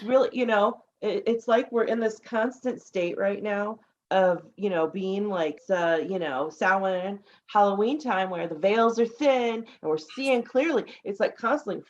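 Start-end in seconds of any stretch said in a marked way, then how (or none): none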